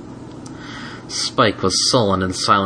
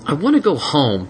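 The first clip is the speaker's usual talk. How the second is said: grumpy; 6 semitones higher than usual. Acted. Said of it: "he grumped".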